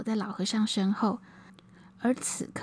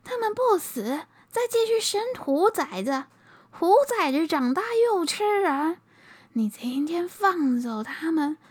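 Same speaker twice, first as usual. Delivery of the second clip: raised, high scolding lament; angry; 5 semitones higher than usual. Acted. Old monk scolds Zhou Xing for freeing the tigers, raised angry scolding. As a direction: berate him for letting the tigers go. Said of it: "老和尚气愤地说".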